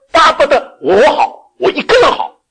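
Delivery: high, loud, slow selfish whine; a hammed-up me-first voice; mock selfish whine. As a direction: play the greedy self-centred heart. Voicing selfish human nature.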